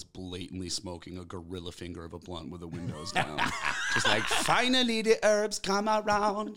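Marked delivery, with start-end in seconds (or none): 4.2-6.6 high, slow, laughing mock glee; laughing stoned relief. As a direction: savour it like the weed finally arrived. Retold stoned thought while smoking.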